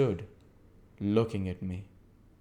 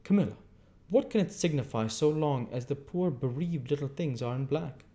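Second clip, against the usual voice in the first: man voiced; 7 semitones higher than usual. Matthew quoted by Camilla.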